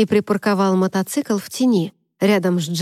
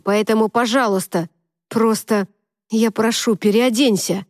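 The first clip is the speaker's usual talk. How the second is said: stammering. Acted. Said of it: "заикаясь".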